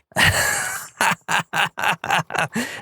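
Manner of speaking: airy burst of real laughter; breathy real laugh. Real, not acted. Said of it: "And I just started laughing".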